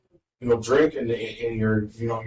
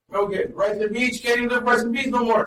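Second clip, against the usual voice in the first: higher, exaggerated joking gripe; mock complaint; 9 semitones higher than usual. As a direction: ham up the grumble. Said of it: "No, I'm just kidding".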